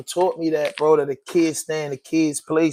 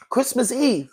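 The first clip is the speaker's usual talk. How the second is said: higher but softer, letting it sink in; heavy, sunk repeat; 6 semitones higher, 5 dB quieter than usual. Real, not acted. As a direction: let the weight land, quieter. Repeats the date in disbelief.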